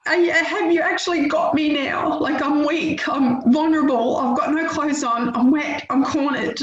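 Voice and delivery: reliving the moment she snapped at her son; mock yell, cornered and scared; retold scream. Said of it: "I just screamed at him".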